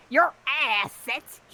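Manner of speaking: laughing through words. Real, not acted.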